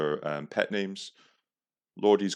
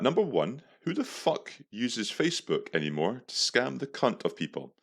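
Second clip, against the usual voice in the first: declaiming an angry text, pitched up; mock-indignant reading; 5 semitones higher than usual. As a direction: read your insulting reply out theatrically. Reads out his insulting reply.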